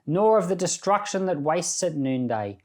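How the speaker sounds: measured, solemn reading of a psalm; scripture reading. Acted. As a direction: read the psalm aloud to the congregation with reverence. Reads Psalm 91 aloud.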